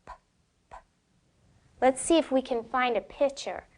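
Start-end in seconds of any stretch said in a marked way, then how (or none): 0.1-0.8 "P" as a bare puff of air with no voice; teacher modelling the sound "P"; isolated P sound. Shown as a demonstration. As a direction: pop the lips on "P" and just blow. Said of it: "It's all blowing".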